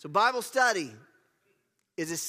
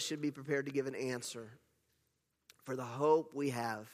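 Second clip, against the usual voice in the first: lower, restrained restatement; pulled back; 4 semitones lower, 5 dB quieter than usual. Real, not acted. Preacher restating everyone's duty to answer, pulled back. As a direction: ease off and say it calmly. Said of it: "I'll pull back a little bit".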